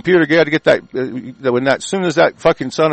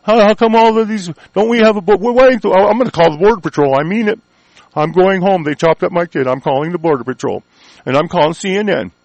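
higher, alarmed voice of a naive listener; mock the listener who finally panics; mock panicked citizen; 3 semitones higher than usual. Host imitating a listener whose kid was hurt, mock panic. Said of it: "maybe you go".

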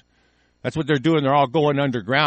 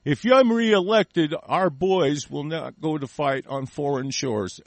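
lightly mimicked campaign speech, slowed right down; Franklin Delano Roosevelt; slower than usual.

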